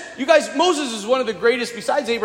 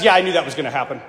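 casual God; 5 semitones lower, much faster than usual. Retold or imitated. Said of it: "And God says".

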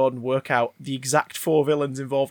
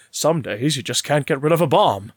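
a light hint of Adam West's Batman; Adam West line; 2 semitones lower than usual. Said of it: "he says at one point".

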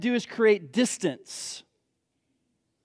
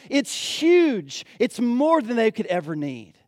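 louder and higher, building excitement; rising preacher's fervor; 4 semitones higher, 4 dB louder than usual. Acted. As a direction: preach it with growing fire.

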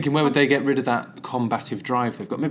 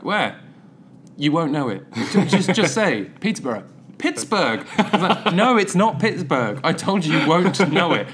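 higher, louder, laughing exasperation; exasperated laughing retelling; 6 semitones higher, 5 dB louder than usual. Retold or imitated. Retelling a French stranger asking where, exasperated and laughing. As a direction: replay frustrated exchange while laughing.

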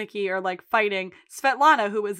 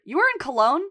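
acted argument; 4 semitones higher, 6 dB louder than usual. Acting out Kev and Mickey scene.

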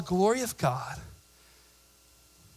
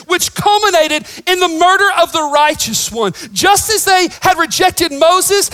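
higher and louder, shouting the point home; preaching at full force; 9 semitones higher, 9 dB louder than usual. Real, not acted. Pastor preaching to his church, full-force shout. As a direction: thunder it out to the congregation.

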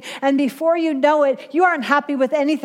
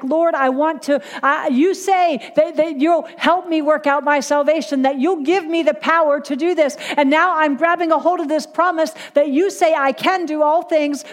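slightly raised, pleading prayer voice; earnest prayer; 3 semitones higher than usual. Retold or imitated. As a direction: plead earnestly with God, re-enacted. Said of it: "because I was like".

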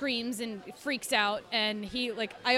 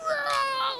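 mock startled whoa; 14 semitones higher than usual. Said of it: "he was like".

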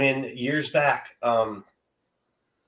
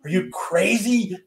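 much higher and louder, delighted exclamation; joyful outburst; 10 semitones higher, 8 dB louder than usual. Retold or imitated. Father answering pregnant daughter, overjoyed and much louder. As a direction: burst out with happy disbelief at the news. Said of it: "And I'm like".

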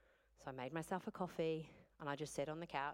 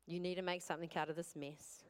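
calm surrendered prayer; 3 semitones lower than usual. Retold or imitated. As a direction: pray it low and hushed, giving in. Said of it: "and I was like".

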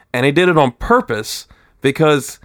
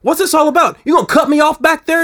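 retold confrontation; 13 semitones higher than usual.

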